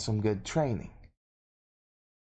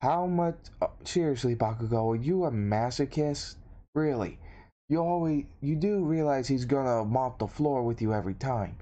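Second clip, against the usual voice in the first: pitched-up, exasperated disbelief; incredulous questioning; 2 semitones higher than usual. Acted. Izuku asking Bakugo if he's a masochist, incredulous. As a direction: question a friend's sanity, mildly exasperated. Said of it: "With Izuku saying".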